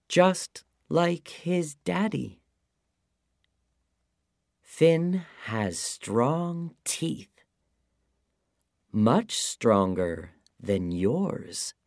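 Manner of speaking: lightly voiced worried wife; high woman's voice. Oonagh's voice in story.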